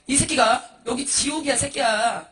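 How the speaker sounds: loud, drawn-out slow rebuke; scornful cursing. Acted. Demon telling the monk this is hell, loud slow scorn. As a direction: spit back the insult, stretching it out.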